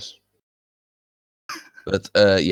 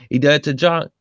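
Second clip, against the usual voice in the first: mock Scandinavian accent; 6 semitones higher than usual. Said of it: "It sounded a little Scandinavian".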